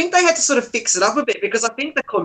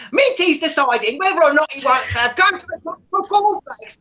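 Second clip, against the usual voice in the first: mock commentator; 5 semitones higher than usual. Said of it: "the guy who commentated the Villa".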